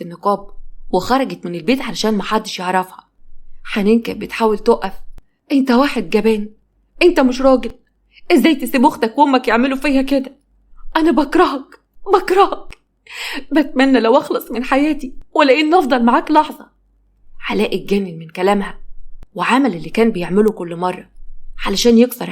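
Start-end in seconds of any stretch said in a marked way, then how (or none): 5.5-16.7 furious screaming. Acted. Beaten wife screaming at her cowardly husband, furious. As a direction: spit your hatred at him.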